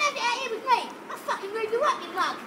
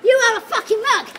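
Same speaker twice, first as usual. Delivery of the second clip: angry shouted taunt; 8 dB louder than usual. Real, not acted. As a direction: goad him to come down and fight. Provoking a man to fight.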